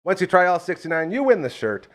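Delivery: upbeat radio ad read. Acted. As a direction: sell it like a sponsor spot.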